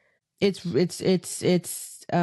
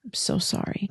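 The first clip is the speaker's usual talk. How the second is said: sheepish whisper; 4 semitones higher than usual. Real, not acted. Apologising for mispronouncing.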